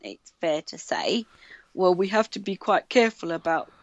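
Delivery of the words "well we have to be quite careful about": a hint of a northern English accent. Interviewer warning a candidate about accents on Radio four, mock northern English accent. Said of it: "said in his very northern accent".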